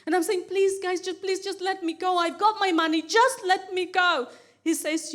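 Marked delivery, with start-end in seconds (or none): 0.5-4.3 higher-pitched retold begging; mildly upset, insistent plea; tearful pleading. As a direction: plead as if close to tears. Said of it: "start to cry".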